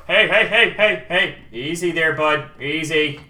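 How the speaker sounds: loud calls easing into a caution; hammed-up guard heading off trouble; urgent warning. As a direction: call out, then talk him down. Guards warn the player off.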